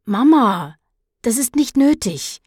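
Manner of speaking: put-on boy trying to talk his mother down; soothing plea. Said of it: "versuchte er, seine Mutter zu beschwichtigen". (beschwichtigend, höher und bittend)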